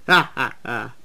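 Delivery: spaced-out, deliberate evil laugh; mock-villain "ha, ha, ha". A narrator's reading. Duncan gloats over the trick, evil laugh. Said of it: "that's a nice evil laugh".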